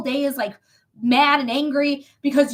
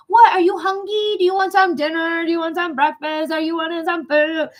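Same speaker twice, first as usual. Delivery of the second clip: talking to a pet; 4 semitones higher, 3 dB louder than usual. Retold or imitated.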